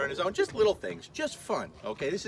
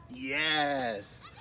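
loud praise; 3 dB louder, much slower than usual. Real, not acted. Owner cheering puppy Dexter past the kids, loud praise.

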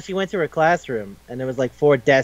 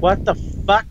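high mock shock in a put-on voice; character reacting, higher put-on voice; 6 semitones higher than usual. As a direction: blurt it high and startled. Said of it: "he goes like".

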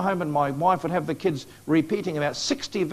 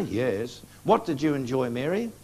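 put-on shy child; 5 semitones lower, 4 dB quieter than usual. Father voicing daughter Mary.

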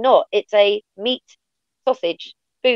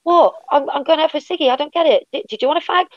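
higher-pitched, baffled questioning; baffled retold protest; 5 semitones higher than usual. Retelling smokers' misunderstanding, mock bewildered. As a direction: act out innocent confusion, pitched up. Acting out confusion over slang.

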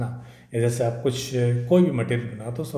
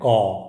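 crow caw; 3 semitones lower, 5 dB louder than usual. Shown as a demonstration. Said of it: "उसकी जो ध्वनि को हम क्या बोलते हैं?".

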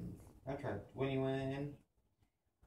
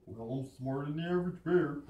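quick, loud cartoon bear; Yogi Bear; 4 dB louder, faster than usual. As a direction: brag like a cheerful cartoon bear. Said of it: "Yogi Bear".

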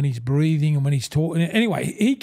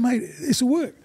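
higher, insistent mock assurance; retelling his promise, pitched higher; emphatic promise; 7 semitones higher than usual. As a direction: sell it with big confidence. Retold promise to his wife.

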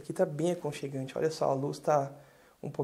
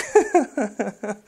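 laugh; 5 semitones higher, 8 dB louder than usual. Real, not acted. Laughs after joking about carioca.

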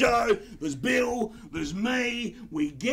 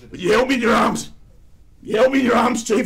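mock tearful outburst; 5 semitones higher, 10 dB louder than usual. Emotional war memory, louder.

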